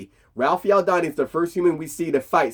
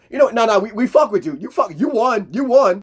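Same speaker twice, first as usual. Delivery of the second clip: louder, higher hyped-up concession; grudging respect; 7 semitones higher, 3 dB louder than usual. Retold or imitated. Elder Predator telling Mike he won, loud hyped concession. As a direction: shout it like a respectful rival. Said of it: "he's like".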